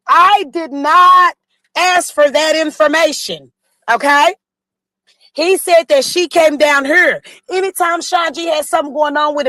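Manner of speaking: slow and insistent; heated and emphatic. Real, not acted. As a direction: spell it out, annoyed. Heated argument, denying lying.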